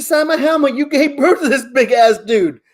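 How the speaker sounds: high, pushy, excited insisting; insistent. Retold or imitated. Fan pushing the player's mom to sign, high and insistent. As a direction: talk her into it, laughing.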